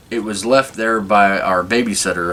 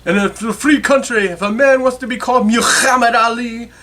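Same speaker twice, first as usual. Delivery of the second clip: put-on much higher, louder old Jewish man accent; 14 semitones higher, 3 dB louder than usual. Barber insisting on a man's right to his name, old Jewish accent. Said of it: "and his accent is".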